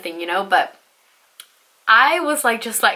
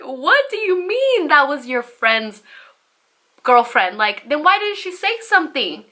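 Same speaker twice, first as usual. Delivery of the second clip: acted disbelief; 5 semitones higher than usual. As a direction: throw the excuse back in retold outrage. Acted quarrel, incredulous comeback.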